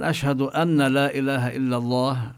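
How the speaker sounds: "أن لا" with the nun clearly heard, no merging; nun said clearly before la; nun pronounced. Shown as a demonstration. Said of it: "أما لو قال الإنسان". (إظهار النون في "أن لا" خطأً)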